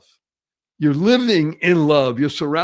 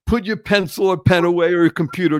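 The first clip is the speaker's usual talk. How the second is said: usual speaking voice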